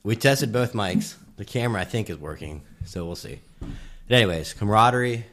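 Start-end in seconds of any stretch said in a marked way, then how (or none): 3.6-5.2 panting after running stairs; winded, catching breath between words. Real, not acted. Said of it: "I'm out of breath".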